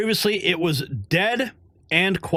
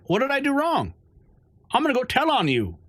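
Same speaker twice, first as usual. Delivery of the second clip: mock whiny tattletale; 8 semitones higher than usual. Retold quarrel with the woman.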